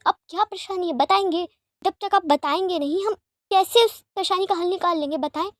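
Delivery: exasperated pressing. Acted. Lanzan presses Wing for reasons.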